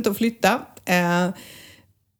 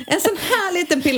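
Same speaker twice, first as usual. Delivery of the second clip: "En sån här liten pilla" said much higher, playful and tiny; higher, cutesy "liten pilla"; 9 semitones higher than usual. Shown as a demonstration. Showing the tiny pill to her co-host, higher and playful. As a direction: pitch it up, cute little pill. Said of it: "Nu ser inte ni, men Mariette ser".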